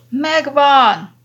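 sudden shout, pitched high and loud; sudden yell. A narrator's reading. Young doctor bursting out at his discovery, shouting. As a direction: blurt it out at the top of his voice. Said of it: "üvöltött fel váratlanul".

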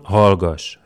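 loud furious command to be silent; sharp snap. A narrator's reading. Pilate cuts off the prisoner, a loud angry snap. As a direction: cut him off hard. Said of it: "rivolt rá Pilátus".

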